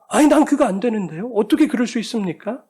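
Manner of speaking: a sermon voicing of Judas refusing; Judas objecting. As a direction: push back with a disbelieving laugh. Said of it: "이 유다가".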